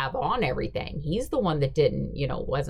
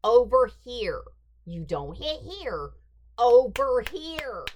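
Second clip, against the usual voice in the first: irritated instruction; 6 semitones higher, 4 dB louder than usual. Retold or imitated. Irritated coordinator repeating instructions.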